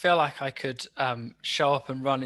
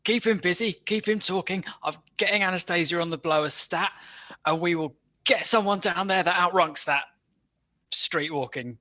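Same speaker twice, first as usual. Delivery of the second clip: British schemer; 3 semitones higher than usual. Acted. Player voices British character.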